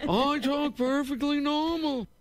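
high, sing-song indignant voice with a laugh; high singsong complaint, laughing; indignant Seinfeld. Retold or imitated. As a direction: protest in a bouncy singsong, cracking up. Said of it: "he would pace back and forth and go".

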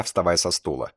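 usual speaking voice

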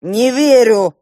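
loud, high cry of disbelief; exclaiming. A narrator's reading. Uncle Yura crying out in disbelief at his son. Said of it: "вскричал дядя Юра".

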